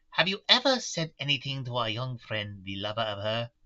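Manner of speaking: put-on light German-Russian mixed accent; old Dutch professor, lightly accented; Van Helsing accent. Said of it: "the accent I picked for Van Helsing".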